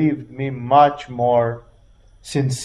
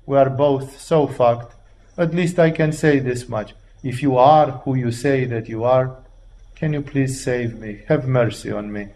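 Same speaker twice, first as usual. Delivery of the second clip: humble plea; 4 semitones lower than usual. Retold or imitated. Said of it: "being in pain and in agony".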